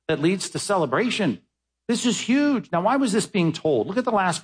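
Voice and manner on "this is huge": excited. Real, not acted. Preacher exclaiming.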